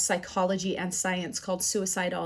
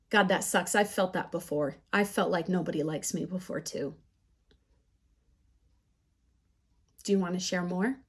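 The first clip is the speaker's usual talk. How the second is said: empathetic; 3 semitones lower, 5 dB quieter than usual. Shown as a demonstration. Models empathetic listening to a hurting child.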